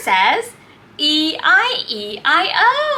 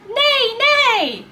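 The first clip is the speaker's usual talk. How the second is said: neighing like a horse; 5 semitones higher than usual. Shown as a demonstration.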